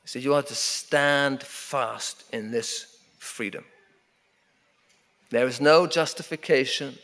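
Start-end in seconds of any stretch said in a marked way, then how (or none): none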